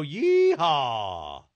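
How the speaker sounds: drawn-out cowboy holler; yeehaw. Acted. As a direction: whoop it like a rodeo cowboy. Host's rodeo call.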